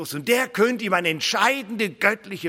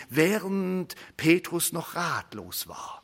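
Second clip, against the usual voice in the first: savoured line; 4 dB quieter, slower than usual. Shown as a demonstration. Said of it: "ich liebe diesen Satz".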